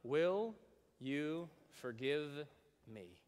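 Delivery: slow, spaced and fading; slow modeled question. Shown as a demonstration. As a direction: draw each word out. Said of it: "followed by".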